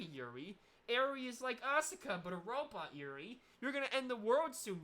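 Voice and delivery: mock robot villain jeering at Yuri; hint of a ceiling AI mocking its test subject; AI overlord voice. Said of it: "a giant A I ... it goes".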